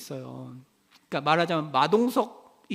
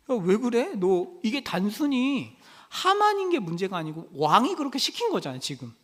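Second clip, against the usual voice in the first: higher-pitched, mildly acted reproach; reproachful questioning; 3 semitones higher than usual. Coworkers press Mordecai about the king's order, mildly reproachful. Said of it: "어감을 좀 더 살리면 이제 책망하는 거예요".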